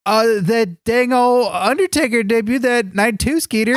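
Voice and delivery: mocking impression of a co-host; teasing imitation of his way of talking; Marky Extreme. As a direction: parrot your buddy's twangy complaint back at him. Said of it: "I know what you're gonna say, Marky Extreme".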